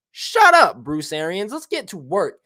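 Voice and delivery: sudden high yell, shut up; yelling at coach Bruce Arians; shouted. Real, not acted. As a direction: bark it at the coach.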